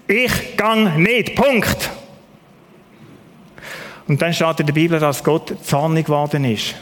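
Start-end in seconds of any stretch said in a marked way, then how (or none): 0.1-1.9 stubborn refusal. Acted. Moses refuses God flatly.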